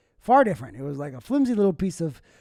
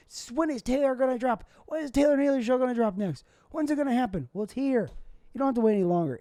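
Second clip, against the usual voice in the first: hyped-up podcast promo, pitched up; hype announcer; 5 semitones higher than usual. Real, not acted. Host hyping listeners for the new episode, excited announcer. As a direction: sell the new episode like a drop.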